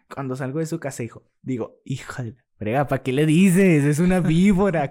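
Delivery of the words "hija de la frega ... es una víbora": louder, higher mock scolding of himself; self-scolding. Scolding himself after coming out to a gossip, mock angry. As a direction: tell yourself off for blabbing.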